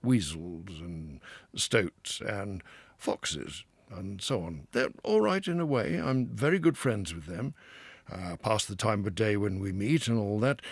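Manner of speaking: lightly voiced, hearty Water Rat; a river-lover boasting fondly of home; a hint of a cheery, expansive Rat; proud Rat. A narrator's reading. Rat warning.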